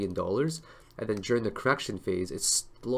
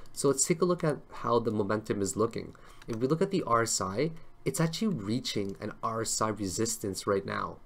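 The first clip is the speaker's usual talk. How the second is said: tired, coarse voice; a slightly coarse, tired voice. Real, not acted. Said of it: "my voice sounds a little bit coarse".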